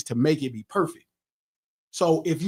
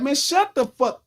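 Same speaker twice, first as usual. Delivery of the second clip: retold snap; 9 semitones higher than usual. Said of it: "so immediately I'm mad".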